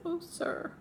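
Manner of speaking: imitating her own teary pleading; retold tearful plea. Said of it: "I almost cried".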